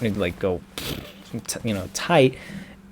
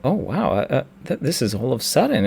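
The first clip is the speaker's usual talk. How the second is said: taken aback; 2 semitones higher, faster than usual. Retold or imitated. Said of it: "he was taken aback".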